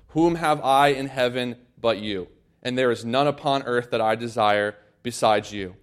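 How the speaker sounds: solemn reading voice; scripture reading. Acted. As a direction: read the verses out to the congregation. Reads Psalm 73 aloud.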